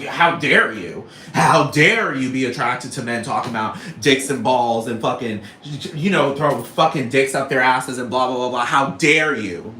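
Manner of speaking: loud, hammed-up scolding; mock indignation. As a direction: act affronted, stretching each "how dare you". Acting out an indignant objection.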